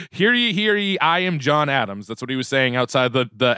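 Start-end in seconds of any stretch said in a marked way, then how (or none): 0.1-2.1 lightly voiced proclamation; town crier. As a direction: announce yourself like a town crier. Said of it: "ringing it like a town crier".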